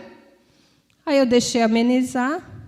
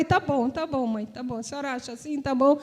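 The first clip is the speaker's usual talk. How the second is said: softer, fading "tá bom" to mom; hurt, resigned quiet; 10 dB quieter, faster than usual. Retold or imitated. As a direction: swallow the hurt and give in. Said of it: "eu só falei". (filha magoada cede à mãe, em voz bem baixa)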